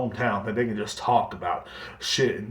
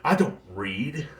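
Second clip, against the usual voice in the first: proud; 3 dB quieter, much slower than usual. Retold or imitated. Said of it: "They say it with so much fucking pride".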